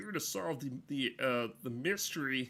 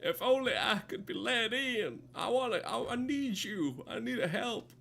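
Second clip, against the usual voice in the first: high, pleading put-on voice; pleading game character; 9 semitones higher than usual. Voicing a stranded game character who needs help with Braille, high and pleading. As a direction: beg for help in a higher character voice.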